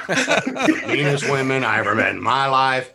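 words through a laugh. Real, not acted. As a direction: chuckle while repeating the punchline. Repeating joke while laughing.

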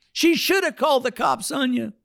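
high, slow mock old lady scolding; hammed-up high old woman voice. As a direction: squeak out an old woman's reproach.

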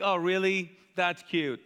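dismissive mock interest; understated sarcastic put-down. Shown as a demonstration. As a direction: feign interest, then brush it off. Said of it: "this is very sarcastic".

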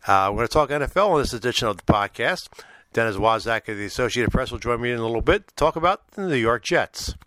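low, uneven voice from a cold; sick, deep, slightly rough voice. Real, not acted. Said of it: "If my voice sounds a little deep and, uh, un-, uneven, it's because I've been battling a little bit of a cold".

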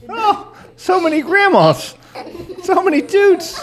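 slow, high, giggly; laughing. Real, not acted. Host giggling about all the tooting grandmas, slow and high. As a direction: draw it out through laughter.

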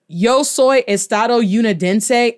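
imitating an English-accented learner of Spanish; hammed-up American accent in Spanish; mock student's American accent. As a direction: Unidense anglicized with a YOU sound, American accent. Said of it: "have a student that walks around talking about".

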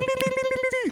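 very high, soft rapid patter sound; cartoon scurry noise; imitated scurrying noise. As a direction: mimic tiny shuffling feet with a high trill. Imitating the tiny man's shuffling run.

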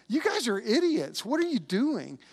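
imitated incredulous telling-off; mock exasperation. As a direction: act out a baffled official scolding squabblers. Imagined tribunal berating squabbling council.

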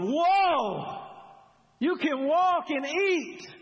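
loud, high, hammed-up astonishment; mock amazed crowd. Onlookers gasping at the girl eating, mock amazed and loud. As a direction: play the gawking crowd, overdone. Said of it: "And everybody's going".

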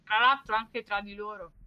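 talking while chewing; mouth full. Real, not acted. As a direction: speak through a mouthful of food. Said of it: "Scusate, sto mangiando". (con la bocca piena)

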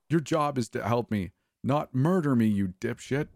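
rising to a shout on murder; angry shriek. A narrator's reading. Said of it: "Becca shrieks at me".

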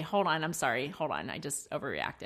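quiet mock apology to child; soft apology. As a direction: back down gently. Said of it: "quick to apologize and say".

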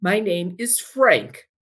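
slow, firm introduction; slow and mildly stern. Retold or imitated. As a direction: state it coldly, no warmth. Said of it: "very sternly".

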